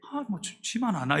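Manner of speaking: imitated grumbling under the breath; mock cursing to yourself, starting very soft; cursing inwardly. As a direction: act out a private, hushed grumble. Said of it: "속으로 막 욕하는 습관이 있어요".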